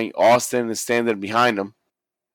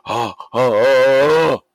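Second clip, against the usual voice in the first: rising alarmed ohs; 2 semitones higher, 4 dB louder than usual. Retold or imitated. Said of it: "when he's like".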